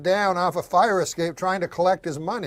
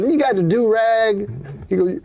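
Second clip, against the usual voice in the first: put-on higher African American accent, retelling a guy; 5 semitones higher than usual. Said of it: "Guy goes".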